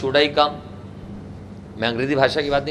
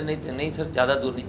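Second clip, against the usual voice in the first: mock casual student; 7 dB quieter than usual. Student jokes to teacher.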